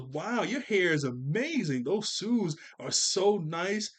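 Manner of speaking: slow, sugary fake compliments; phony nice. Angelica in the cafeteria flattering, phony sweet. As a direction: lay it on thick and insincere. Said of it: "trying to be phony nice".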